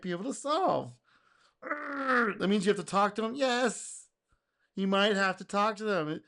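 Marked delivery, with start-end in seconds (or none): none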